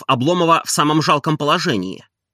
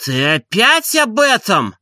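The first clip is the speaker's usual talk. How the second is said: slow, higher, louder astonished question; 9 semitones higher, 4 dB louder, slower than usual. A narrator's reading. Oblomov amazed at his servant, slow and louder. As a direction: disbelief that he's raising it yet again. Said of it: "с изумлением спросил Обломов".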